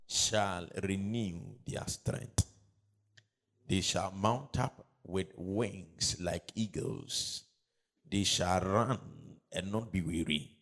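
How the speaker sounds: slow, measured reading aloud; drawn-out words with deliberate pauses; scripture reading. Acted. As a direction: lead the congregation through the verse slowly. Leads congregation reading scripture aloud.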